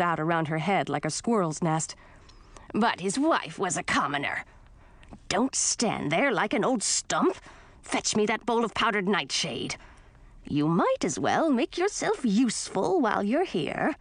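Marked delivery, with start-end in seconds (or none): 2.7-13.9 grumpy witch aunt. Acted. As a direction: snap like a grouchy old witch. Voices grumpy aunt Gracina.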